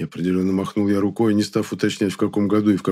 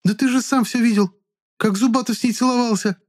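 indignant woman. A narrator's reading. Klara's indignant reply.

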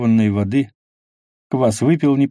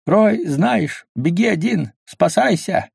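heartfelt; 8 semitones higher, slower than usual. A narrator's reading. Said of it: "проникновенно говорил".

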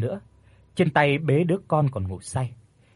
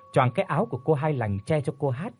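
usual speaking voice

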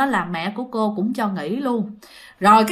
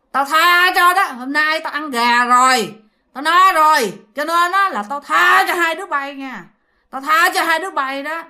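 imitated menace; 4 semitones higher than usual. Woman sparing two terrified children, in a menacing voice. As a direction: grant mercy like a threat, pitched up. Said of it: "bả còn dặn thêm một cái câu".

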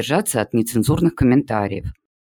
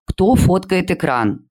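high, slow and eager; light up with sudden interest; perking up; 6 semitones higher, 3 dB louder, slower than usual. A narrator's reading. A pupil excited by the photo, eager question. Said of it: "оживилась Юля".

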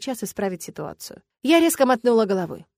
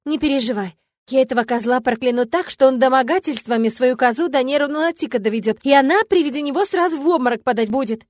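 vengeful vow; 4 semitones higher, 6 dB louder than usual. A narrator's reading. Friend vows to curse offender.

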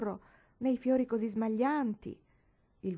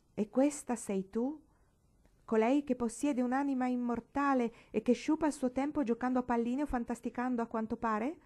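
sour reproach; 5 semitones higher than usual. Acted. Paola scolding Marigold for playing marbles, sour reproach. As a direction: look down on her and scold. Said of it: "la interrogò Paola acerbamente".

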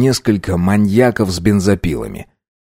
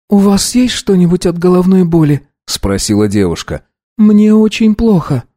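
put-on higher girl's voice, weak and pained; higher young woman, unwell; ailing girl's voice; 9 semitones higher than usual. A narrator's reading. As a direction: play a sick young woman asking for help. Girl voiced in story.

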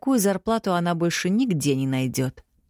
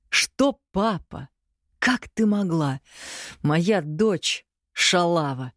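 mild mock disgust, slow; scornful father; much slower than usual. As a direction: drag out the reproach. Father shames daughter.

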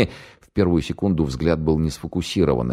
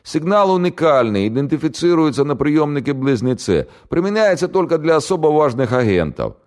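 put-on much higher, louder panicky young man; scared radio operator; 12 semitones higher, 4 dB louder than usual. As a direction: blurt it out in terror. Голос радиста. (испуганный пленный радист, высоко и громко)

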